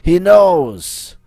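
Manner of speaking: put-on knowing French-accented Baron, punching the last words. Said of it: "my accent".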